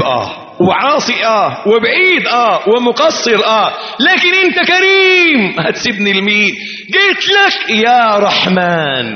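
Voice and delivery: slowed, swelling supplication; pleading prayer. Pretend. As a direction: beg God, rising toward the end. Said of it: "كأنك بتقول".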